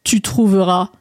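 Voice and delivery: put-on slow, deliberate old frog giving directions; frog character. Frog sending André down the path, slow croaky drawl. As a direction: spell it out slowly, ending on a long croak.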